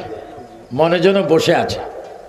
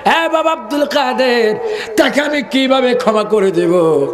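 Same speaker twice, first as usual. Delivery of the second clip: retold tearful mother; 4 semitones higher than usual. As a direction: intone her grievance like a lament. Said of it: "চোখের পানি বুক বাসিয়ে বলে".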